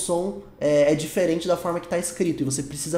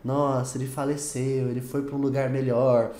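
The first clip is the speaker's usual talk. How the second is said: gentle euphemism; 4 semitones lower than usual. Acted. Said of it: "um pouco de eufemismo".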